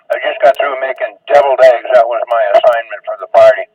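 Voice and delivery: chewing while talking; mouth full. Real, not acted. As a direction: talk through a mouthful of food. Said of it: "excuse me for talking with my mouth full".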